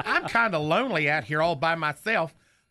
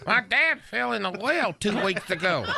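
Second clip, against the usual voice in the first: Knucklehead's voice; 2 semitones higher than usual. Acted. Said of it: "still doing Knucklehead's voice".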